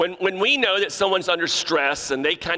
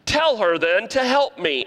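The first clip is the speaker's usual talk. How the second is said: ordering; 7 semitones higher, 3 dB louder than usual. Retold or imitated. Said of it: "now she's ordering him".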